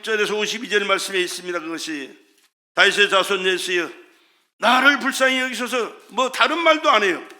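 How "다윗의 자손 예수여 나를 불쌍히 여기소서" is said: blind beggar's plea, raised moderately; mildly imitated cry for help. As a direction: call out for mercy with a firm push. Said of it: "그가 소리를 지릅니다".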